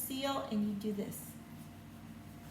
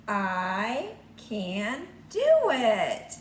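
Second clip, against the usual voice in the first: put-on slow boy answer; 6 dB louder, much slower than usual. Boy answers in picture book.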